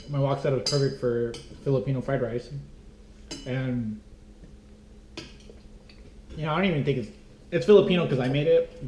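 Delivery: muffled behind a hand; hand over mouth. Real, not acted. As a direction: talk through your hand, mouth full. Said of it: "I'm gonna talk with my hand over my mouth".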